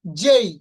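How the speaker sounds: "জেই" loud, gliding from e to i; correct letter name. Shown as a demonstration. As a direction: model "জেই" as jey. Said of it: "not জে". ("জেই" জোরে, শেষে ই টেনে)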